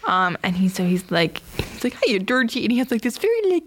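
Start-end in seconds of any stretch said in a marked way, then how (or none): 2.0-2.6 lightly imitated creepy clown hello; a hint of creepy friendliness; Pennywise. Clown greets the boy from the drain, creepy. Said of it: "it's still very creepy voice".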